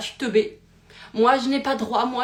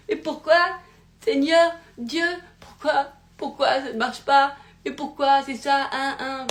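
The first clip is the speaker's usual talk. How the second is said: higher, louder theatrical lament; mock despair; 5 semitones higher, 4 dB louder than usual. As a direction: ham up a desperate plea to God. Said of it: "la théâtralisation des émotions". (lamentation théâtrale, plus aiguë et plus forte)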